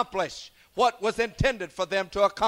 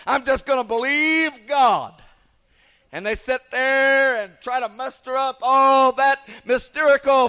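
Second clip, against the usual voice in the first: fiery preaching. Acted. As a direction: drive it home to the congregation. Preaching at full force.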